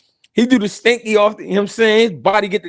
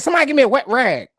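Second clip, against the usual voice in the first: quoting the coach; 3 semitones higher, much faster than usual. Retold or imitated. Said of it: "He said".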